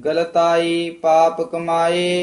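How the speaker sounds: scripture recitation. Shown as a demonstration. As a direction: recite steadily, holding the line endings. (ਠਹਿਰਾਅ ਵਾਲਾ ਗੁਰਬਾਣੀ ਪਾਠ)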